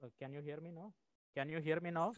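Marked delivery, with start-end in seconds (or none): 1.3-2.1 speaking up louder; louder into the mic. Real, not acted. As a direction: raise the voice so the mic picks it up. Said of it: "That's better".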